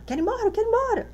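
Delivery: put-on high, fast childlike whine; imitating a daughter begging to go home; whiny child. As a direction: rattle it off like a small girl wanting to leave. Daughter's demand retold.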